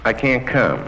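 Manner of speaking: comic voicing a lover in bed, rising to shouts; Lenny Bruce bit. Comic acting out a couple's bedroom fight on stage, heated. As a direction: act out the bedroom quarrel in a stand-up bit. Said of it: "incredible stuff from Lenny".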